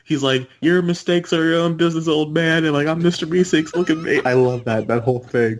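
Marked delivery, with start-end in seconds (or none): 0.6-4.2 raised-pitch cartoon character voice; Meeseeks. Imitating a two-year-old cartoon character to friends, in a raised voice. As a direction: put on a higher, eager cartoon voice. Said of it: "one Meeseeks is, like, two years old. He's like".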